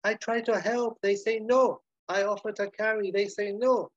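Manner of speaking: high, aggrieved self-pity; waiter grumbling to himself. Acted. Manuel to himself after being refused, high-pitched grumbling. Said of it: "and Manuel to himself".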